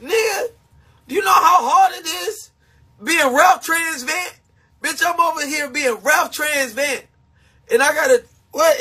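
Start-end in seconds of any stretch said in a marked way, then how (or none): 0.0-7.0 half-crying plea. Real, not acted. Half-crying complaint about being tough.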